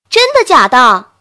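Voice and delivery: loud, astonished disbelief; can't believe it; surprised. A narrator's reading. Hears startling good news.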